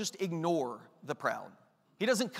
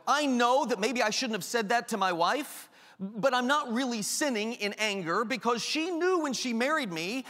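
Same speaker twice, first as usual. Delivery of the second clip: prideful excuse; 2 semitones higher than usual. Retold or imitated. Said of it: "Pride justifying a sin".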